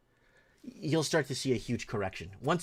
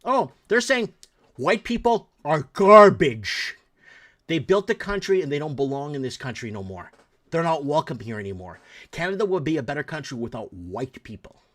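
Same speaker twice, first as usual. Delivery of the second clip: wife's loud translation; 2 semitones higher, 8 dB louder than usual. Retold or imitated. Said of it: "And I asked my wife".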